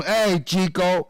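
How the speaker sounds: low, drawled mock Cuban-tough-guy accent; Razor Ramon impression. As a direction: swagger it like a fake Latino wrestler accent. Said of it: "Razor Ramon".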